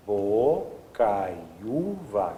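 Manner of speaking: "bocaiúva" very slow, every syllable drawn out. Shown as a demonstration. Teacher pointing out the U, syllable by syllable. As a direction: stretch "bocaiúva" so the separate U stands out. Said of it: "Isso aqui é um U".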